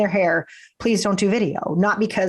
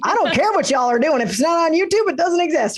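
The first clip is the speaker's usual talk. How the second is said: higher, lightly voiced dismissive viewer; mock YouTube viewer; 9 semitones higher than usual. Podcast guest imitating YouTube-only viewers, mildly higher and dismissive. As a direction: toss it off like a viewer who only watches YouTube.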